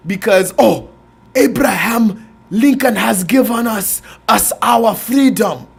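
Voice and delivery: mocking African accent of a movie slave. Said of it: "you're still talking like you're fresh off the Amistad".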